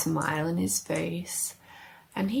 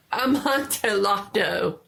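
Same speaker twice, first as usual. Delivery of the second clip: louder, higher, hungry for the wine; eager exclamation; 3 semitones higher, 5 dB louder than usual. Acted. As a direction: blurt the word in excitement. Fortunato repeats the wine name.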